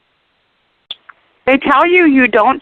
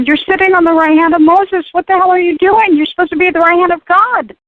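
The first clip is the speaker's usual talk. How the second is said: mock angry rebuke; 5 semitones higher than usual. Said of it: "he was so pissed".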